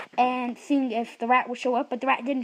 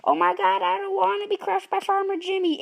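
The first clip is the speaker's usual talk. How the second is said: scared rat; 8 semitones higher than usual. Acted. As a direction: beg not to be crushed. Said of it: "the rat was like".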